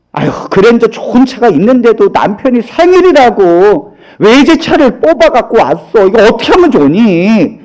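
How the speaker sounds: imitated show-off friend; hammed-up humblebrag to a friend; mock bragging. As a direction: boast while pretending it is a problem. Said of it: "자랑을 놓고 있어".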